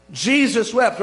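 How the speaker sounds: loud, quick verse recital; punchy, matter-of-fact quote; brisk recitation. Acted. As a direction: toss the verse out briskly and firmly. Verse rattled off as a favourite.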